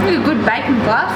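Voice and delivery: talking through a mouthful; words round a bite of food; mouth full. Real, not acted. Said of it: "Don't eat with your mouth full".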